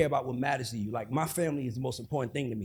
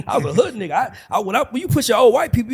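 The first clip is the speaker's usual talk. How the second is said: ordinary delivery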